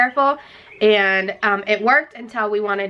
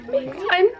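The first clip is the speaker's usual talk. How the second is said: crying; 4 semitones higher than usual. Real, not acted. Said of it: "I'm crying".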